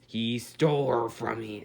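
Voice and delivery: a touch of Batman growl, slowed; Batman impression. Narrating his story, doing a slow mock Batman. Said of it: "that was my best Batman impression".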